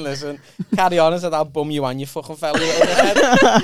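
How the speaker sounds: loud, laughing yell; retold yelled insult. Comic telling a heckler off, loud and laughing. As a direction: bark the insult back with a laugh. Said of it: "I just went".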